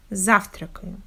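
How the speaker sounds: завтракаю stressed on ЗАВ, rest reduced; завтракаю with a strong first syllable, unstressed vowels swallowed. Shown as a demonstration. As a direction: punch ЗАВ in завтракаю, glide quickly through the rest. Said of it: "stress on the first syllable".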